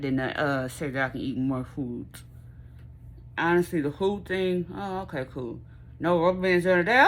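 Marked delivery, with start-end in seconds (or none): 6.0-7.1 tearful excited squeal; overjoyed, voice breaking with happy tears. Real, not acted. Excited news, crying out.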